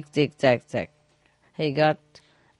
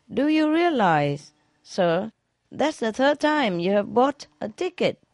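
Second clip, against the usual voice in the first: put-on ticket girl; 6 semitones higher than usual. Ticket girl questions drunk.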